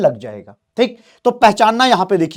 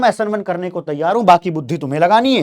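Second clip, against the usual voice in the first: solvent talking; faster than usual. Retold or imitated. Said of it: "solvent चिल्लाकर कह रहा है".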